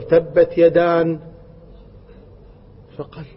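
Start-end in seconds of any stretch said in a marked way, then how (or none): 0.0-1.2 يدان with a final n, slow; child's wrong repeat. Retold or imitated. Child repeating the wrong reading to the teacher. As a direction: stubbornly say "yadan" again. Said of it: "فقال الطفل".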